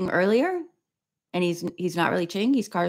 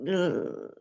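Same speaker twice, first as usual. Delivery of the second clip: quiet shuddering ugh; creeped-out groan; 5 dB quieter than usual. Real, not acted. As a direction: recoil with a soft ugh. Disgust at sea creatures.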